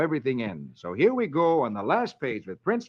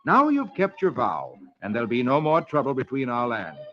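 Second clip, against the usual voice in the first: delighted; 3 dB louder than usual. Acted. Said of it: "squeals with delight and says".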